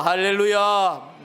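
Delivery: slow, loud, stretched hallelujah; drawn-out hallelujah. Real, not acted. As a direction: call it out long and strong. Preacher calls out hallelujah. (길게 외치는 할렐루야)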